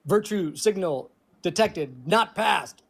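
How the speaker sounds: slow mock computer readout; deadpan machine announcement; robot voice. Answers with robot voice.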